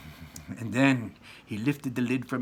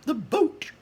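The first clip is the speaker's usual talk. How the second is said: high, loud, drawn-out shout; shouted order; 6 dB louder, slower than usual. Acted. Wonka ordering the Oompa Loompas, high slow shout. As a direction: shout the command across the boat.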